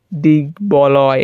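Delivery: slow দিক বলয় in separate beats; b unchanged. Shown as a demonstration. Teacher demonstrating for students, slow দিক বলয়, b sounded. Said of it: "এই ব এর উচ্চারণ ওইরকমই থাকবে".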